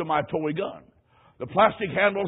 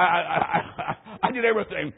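laughing. Real, not acted. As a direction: stammer then laugh through it. Stammering, laughs at memory.

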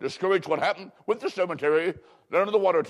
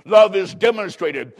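emphatic proclamation; 3 semitones higher, 7 dB louder than usual. Acted. Preacher drives home point.

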